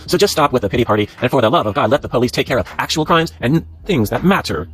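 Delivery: emphatic read-aloud of an angry post. Acted. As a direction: read the accusing post out with mild indignation.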